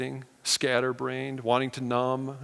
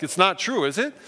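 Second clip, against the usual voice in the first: stunned disbelief; 6 semitones higher, 4 dB louder than usual. Retold or imitated. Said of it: "We just were like".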